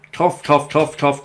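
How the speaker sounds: mock coughing fit, spoken as the word cough; imitated smoker's cough. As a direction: mimic the ex-girlfriend's morning cough, lightly. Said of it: "cough her guts up".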